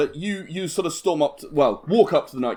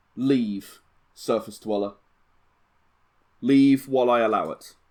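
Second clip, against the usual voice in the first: intimidating, menacing knight voice, much lower pitch; 4 semitones lower than usual. A knight ready to draw his sword orders a stranger to leave, intimidating knight. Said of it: "looks intimidating at you".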